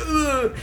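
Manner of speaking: high mock whimpering groan; imitated crying. Surfer imitates rescued tourists crying on her board, mock whimper. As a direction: mimic a choking, tearful moan. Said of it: "crying and, like, bloodshot eyes".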